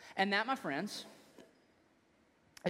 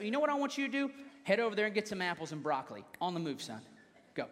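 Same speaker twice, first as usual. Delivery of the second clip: a mock-stern dad catching his son; stern father; 4 semitones higher, faster than usual. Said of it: "And I say".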